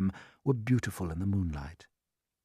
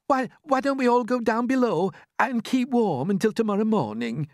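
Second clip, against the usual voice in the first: high gentle suggestion; Miss Spider; 11 semitones higher, 5 dB louder than usual. Acted. Miss Spider suggesting they go below, high. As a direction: suggest it sweetly. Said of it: "Miss Spider suggested".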